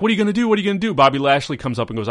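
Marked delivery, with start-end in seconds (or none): 0.0-0.9 mock nagging question. Mocking repeated backstage question.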